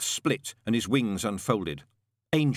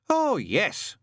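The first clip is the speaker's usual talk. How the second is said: bitter; 10 semitones higher, 4 dB louder than usual. A narrator's reading. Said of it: "said Newt bitterly".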